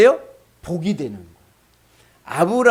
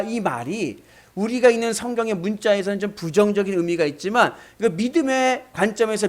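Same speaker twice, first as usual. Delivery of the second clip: usual speaking voice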